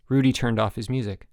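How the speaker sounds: ordinary delivery, nothing marked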